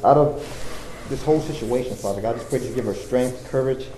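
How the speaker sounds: earnest spoken prayer, rising and falling; fervent prayer. Acted. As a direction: pray aloud for the congregation. Leads the congregation in prayer.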